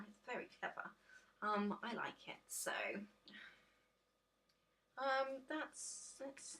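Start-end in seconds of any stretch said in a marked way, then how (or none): 0.1-0.9 soft breathy echo. Shown as a demonstration. Viewer hears her repeat the praise as a hushed unvoiced echo. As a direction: repeat "It's very clever." as a soft unvoiced aside. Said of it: "So it's very clever".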